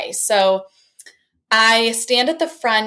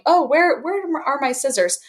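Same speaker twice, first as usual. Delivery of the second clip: flustered, searching; 5 semitones higher than usual. Retold or imitated. Teacher acting flustered search.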